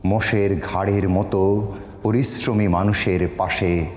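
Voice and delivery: sustained, measured recital with long pauses; solemn Bengali poetry recitation; poem recitation. Acted. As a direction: recite each line as verse, drawing out the endings. আমি এই কবিতাটি আপনি অনুমতি দিলে আমি শোনাতে পারি.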